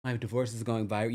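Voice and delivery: a hint of Valley girl gushing about going viral; Valley girl impression. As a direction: lightly imitate a breathless Valley girl. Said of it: "Rachel does talk like a College Valley girl".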